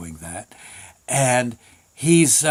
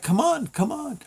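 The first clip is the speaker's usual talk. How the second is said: urging bandmates; 11 semitones higher, 4 dB quieter than usual. Retold or imitated. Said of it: "looking at him like".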